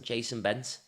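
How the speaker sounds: name said in a light Scouse accent. Shown as a demonstration. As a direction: give the name a Liverpool lilt. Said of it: "it sounds great in a Scouse accent".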